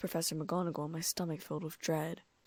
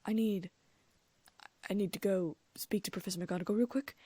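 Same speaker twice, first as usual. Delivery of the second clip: stammering; 2 semitones higher than usual. Acted. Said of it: "I stammered".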